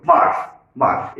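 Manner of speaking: মার said alone and stopped at the r; teacher isolating the closed syllable মার. Shown as a demonstration. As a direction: say মার, stop, pause, then repeat. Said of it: "এখানে থেমে যাচ্ছে".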